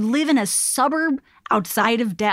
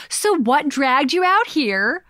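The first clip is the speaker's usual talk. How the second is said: slow, pointed mock neighbor question; lightly imitating a nosy neighbor's jab; slow, pointed passive aggressive question, mildly voiced; 2 semitones higher, slower than usual. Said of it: "passive-aggressive shit".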